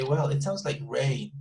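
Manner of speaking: "rain" stressed as a fresh discovery. Shown as a demonstration. Someone hears a sound outside, stressing "rain". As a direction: land the emphasis on "rain". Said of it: "you're emphasizing on rain".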